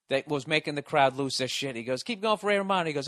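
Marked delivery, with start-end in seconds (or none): 2.0-2.9 higher, hyped club host; emcee hype voice. Retold or imitated. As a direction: pump up the room like an emcee. Host hyping the crowd.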